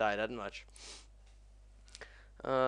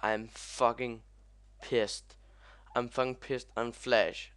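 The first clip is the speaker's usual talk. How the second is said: louder, heavily punched irritation; pissed off; 5 dB louder than usual. Real, not acted. Gamer pissed at Flash for freezing, annoyed emphasis. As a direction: lean hard on each angry word. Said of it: "I'm mad now".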